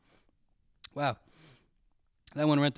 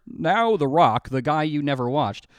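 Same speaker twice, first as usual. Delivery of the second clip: dramatic subtitle read; 3 semitones lower than usual. Pretend. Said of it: "Don't show me the words".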